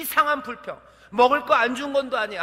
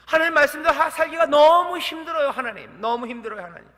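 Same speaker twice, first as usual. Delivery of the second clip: pleading to God; 4 semitones higher, 6 dB louder than usual. Pretend. Moses crying out to God.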